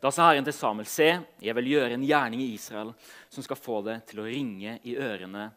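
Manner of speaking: measured Bible reading with pauses; solemn storytelling from scripture. A narrator's reading. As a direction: read the passage aloud to a congregation, phrase by phrase. Reads Bible passage aloud to congregation.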